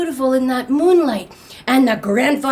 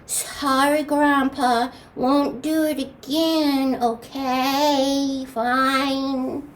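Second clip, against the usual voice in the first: slow, drawn-out lightly voiced apology; little grandson; much slower than usual. Little grandson promising grandpa not again, slow half-hearted sorry. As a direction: stretch each phrase in reluctant submission. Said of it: "that little grandson, he goes".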